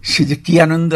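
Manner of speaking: উঁচু সুরে উচ্ছ্বাস; খুশির চিঠির কথা উঁচু গলায়; excited joy. Real, not acted. Recalls joy of getting letter. (উচ্ছ্বসিত আনন্দে, উঁচু স্বরে)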